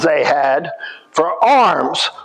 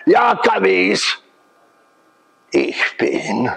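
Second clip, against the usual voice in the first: put-on Pennsylvania Dutch accent; slower than usual. The water hammer man answering the guide, in a Pennsylvania Dutch accent. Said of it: "they called this man the Wasserhammer man".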